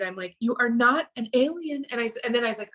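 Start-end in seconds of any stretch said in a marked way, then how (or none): 0.4-1.9 exasperated. Retold or imitated. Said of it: "I get a little exasperated".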